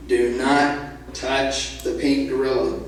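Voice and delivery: slow, deliberate, low warning; stern instruction. Acted. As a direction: lay down the rule word by word. Owner lays down his rule.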